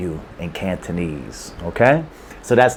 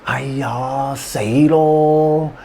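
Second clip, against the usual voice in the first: mild frustration; 4 semitones higher, much slower than usual. Retold or imitated. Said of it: "You often hear that expression".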